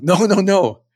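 retelling a friend's emphatic no; insistent friend. Retold or imitated. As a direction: cut him off, you must be told.

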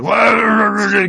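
high, loud fanboy shout; mock outraged shout. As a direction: yell it like an outraged fan. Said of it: "all the Adam West fans were like".

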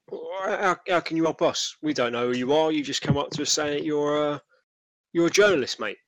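lightly voiced, dismissive market trader; sceptical stallholder. Stallholder challenging a reporter's offer of help, sceptical.

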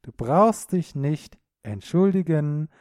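ordinary talk, nothing marked

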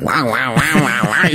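imitating Scottish mumble as barking sounds; Scottish accent turned to mushy woofs; hammed-up Scottish gibberish; mock Scottish accent. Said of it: "el acento escocés".

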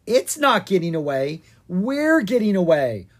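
"not" and "We're" hit loud and firm; correcting. Acted. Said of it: "Owen corrected".

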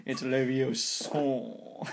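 slow, drawn-out correction; know-it-all correction. Retold or imitated. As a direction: drag the word out like a know-it-all. Mimicking the Harry Potter correction.

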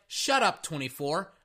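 high, brash talk-back; high cocky shut up; cocky quarterback voice. Retold or imitated. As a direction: play the QB snapping back at the fan. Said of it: "Lamar Jackson is like".

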